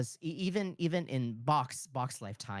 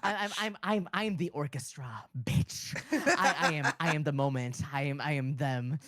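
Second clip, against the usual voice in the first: laughing, self-important boast; posing as the whole orchestra; grandiose posing. Pretend. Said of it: "me now in my soapbox".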